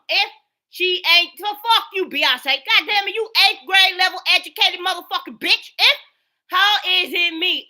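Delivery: angry cursing. Real, not acted. Cursing the women out.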